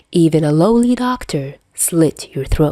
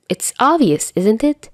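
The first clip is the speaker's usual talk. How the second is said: flustered insisting; 6 semitones higher than usual. Acted. Dazai flustered argument.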